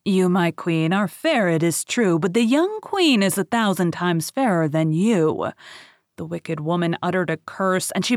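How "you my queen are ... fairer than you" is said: lightly voiced magic mirror, a bit louder; shimmering echoing mirror voice. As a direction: speak as a solemn enchanted mirror. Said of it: "The mirror answered".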